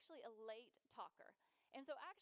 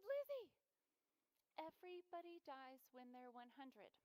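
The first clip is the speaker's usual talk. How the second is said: exasperated mom call. Retold or imitated. Mom finally snaps an answer.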